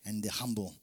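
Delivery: hushed promise; whisper. Real, not acted. Preacher promising the humble to the congregation, in a whisper. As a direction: drop to a secret whisper.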